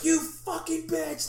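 slow, high, loud curse spat out; furious yell. Retold or imitated. Aquaman cursing Wonder Woman over his wife, furious yell. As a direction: roar it at her in fury. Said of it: "Aquaman's like".

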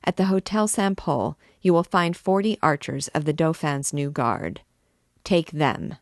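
controlled, measured anger in steady orders; cold wrath. Acted. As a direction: hold the rage tight and cold. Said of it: "with cold and concentrated wrath".

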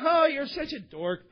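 high, drawn-out mock jeer; hammed-up, slow taunt. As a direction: tease like a scornful fellow passenger. Mocking passengers acted out.

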